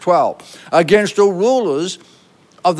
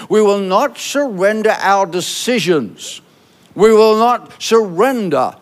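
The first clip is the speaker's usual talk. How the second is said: roaring rallying speech. Acted. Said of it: "you should shout it".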